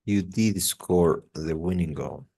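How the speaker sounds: DID drawn out for emphasis; stress on did. Shown as a demonstration. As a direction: lean on the word "did". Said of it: "you can really give an emphasis".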